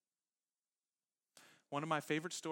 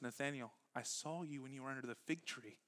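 soft; 7 dB quieter than usual. Retold or imitated. Jesus speaks softly to Nathanael.

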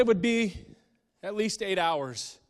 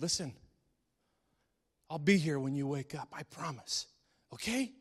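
tender promise. Acted. Dad's whispered promise to son.

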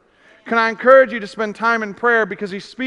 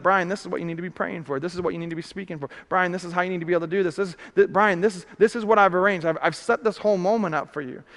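inner voice of God; 3 semitones lower, 5 dB quieter, faster than usual. Pretend. God speaking into the heart.

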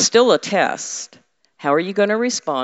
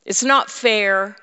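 complaining; 4 semitones higher, 3 dB louder than usual. Retold or imitated. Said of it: "we say".

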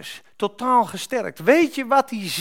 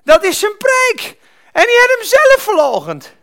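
loud, raised-pitch pulpit shout; full-force preaching; 7 semitones higher, 10 dB louder than usual. Real, not acted. Preacher marvels at forgiven Peter to congregation, shouting. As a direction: drive each point home at the top of your voice.

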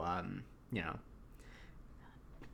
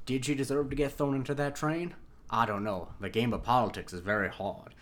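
lightly attempted Southern politician accent; bad Kevin Spacey accent. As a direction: try a hint of Kevin Spacey's House of Cards accent. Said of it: "Sorry, that accent wasn't good".

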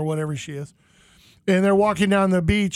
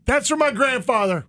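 higher-pitched proud proclamation; raised, declaiming quote; retold declaration; 5 semitones higher than usual. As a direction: announce it to the sea. Retold shout at the ocean.

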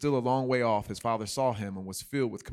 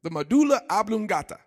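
much higher, louder Waterboy blurt; 11 semitones higher, 8 dB louder than usual. Retold or imitated. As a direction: shout the big words back eagerly. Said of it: "And he said".

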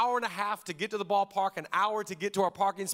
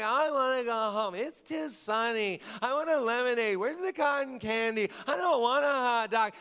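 put-on complaining kid; 3 semitones higher than usual. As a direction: nag like a sunburnt five-year-old. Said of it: "just complaining the whole time".

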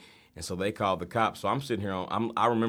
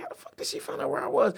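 high, incredulous voice; stunned disbelief. Retold or imitated. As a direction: ask it in total disbelief. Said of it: "I was like".

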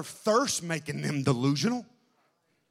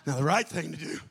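much softer, lower sermon voice; hushed preaching; 6 semitones lower, 8 dB quieter than usual. Acted. Preacher quietly drawing the congregation in. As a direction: drop the voice low and intimate.

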